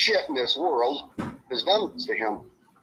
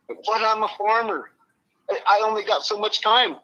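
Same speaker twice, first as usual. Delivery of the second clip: high-pitched imitation of a pleading friend; retold protest; 8 semitones higher than usual. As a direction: plead your case in a raised pitch.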